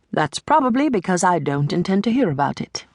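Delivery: put-on a lightly done cold British accent; clipped-off British accent, icy and dismissive. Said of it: "she says in a cold British accent".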